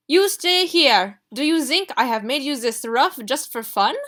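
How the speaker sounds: put-on very loud, high, slow French-accented fury; furious French accent. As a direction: fling the words at him in a French temper. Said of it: "a furious Madame Rossini".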